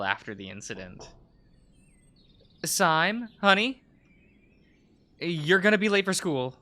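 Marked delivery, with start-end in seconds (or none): 2.6-6.6 lightly voiced mama calling up high; a gentle mom nudging her kid out of bed; mother waking child. Mother calling her son awake for school, lightly voiced. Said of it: "Mama, but please".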